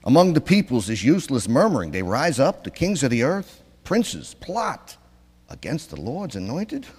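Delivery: put-on psalm read in a Brooklyn accent. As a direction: keep the Brooklyn put-on going. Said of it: "This is how they say the psalm in Brooklyn".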